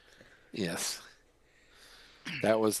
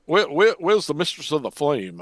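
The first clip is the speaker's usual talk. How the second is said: put-on Southern Georgia accent; 2 semitones higher than usual. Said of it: "that's Southern Georgia".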